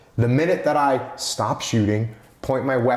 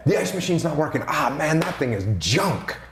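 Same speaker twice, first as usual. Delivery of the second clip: sympathetic agreement. Retold or imitated. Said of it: "so instead".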